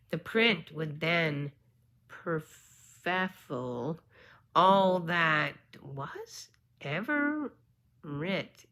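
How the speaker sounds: slow, drawn-out reading of archaic verse; halting poem recital with long pauses; careful verse reading. Real, not acted. Reads old verse aloud.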